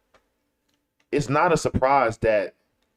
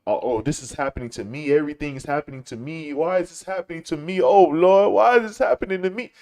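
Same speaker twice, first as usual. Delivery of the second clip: mock whining; 4 semitones higher than usual. Host mocks people who complain, as a mock whiny wail. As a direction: mimic a self-pitying crybaby, building to an overblown wail. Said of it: "crying and bitching and moaning about".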